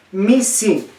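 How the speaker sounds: "Mi, si" as two careful separate words; teacher's model of the i in "Mi, si"; careful pronunciation. Shown as a demonstration. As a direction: pronounce "Mi" and "si" clearly, one by one. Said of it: "pronuncien bien".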